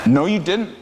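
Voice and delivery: put-on a child's sharp retort; a touch of kid's defiance; snapping. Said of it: "snapped Sam".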